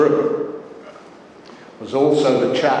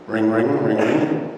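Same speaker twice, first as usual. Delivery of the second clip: ring-ring sound effect done by mouth; imitated phone ring; 4 semitones lower than usual. Speechmaker acting out an unexpected phone call, imitated phone ringing. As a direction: mimic a ringing telephone.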